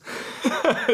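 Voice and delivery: breathy giggle bursting out; can't hold back a giggle; real laugh. Real, not acted. Laughing at the joke.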